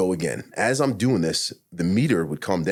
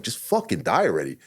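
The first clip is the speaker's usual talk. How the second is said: raised-pitch, acted-out exasperation; retold frustration; 4 semitones higher than usual. Man retelling scolding himself mid-trip, frustrated. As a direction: act out being fed up with yourself. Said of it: "I'm getting frustrated with myself".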